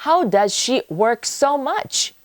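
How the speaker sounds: slow, marvelling question; admiring. Shown as a demonstration. Teacher shows how to ask it with admiration. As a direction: sound impressed by her workload. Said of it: "좀 감탄하다는 듯이 말할 수도 있겠습니다".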